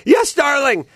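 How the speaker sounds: the cowed husband's reflex reply; fearful reply. Retold or imitated. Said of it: "with fear in his voice".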